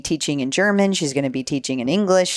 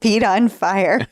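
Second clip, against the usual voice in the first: trying not to laugh; 3 semitones higher, slower than usual. Real, not acted. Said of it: "I can't say it without laughing".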